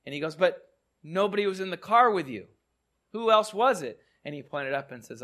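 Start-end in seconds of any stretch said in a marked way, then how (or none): 0.3-4.0 2 higher and louder, puzzled disbelief; 3 ask it amazed, looking for the answer; 1 baffled question. Retold or imitated. 4 bakery owner asking the calm driver who helped him, higher and astonished.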